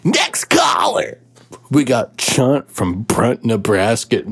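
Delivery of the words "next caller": host call-out. Acted. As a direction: announce it big like a DJ. Radio host calls next.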